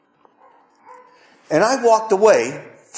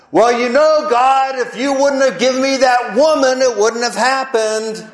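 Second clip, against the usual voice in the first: Adam's excuse; 4 semitones higher than usual. Retold or imitated. Voicing Adam making excuses.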